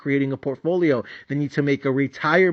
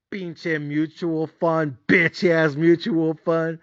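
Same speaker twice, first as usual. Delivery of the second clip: drawn-out disgust; disgusted at the fund; slow contemptuous muttering; much slower than usual. Retold or imitated. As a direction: spit the insult slowly.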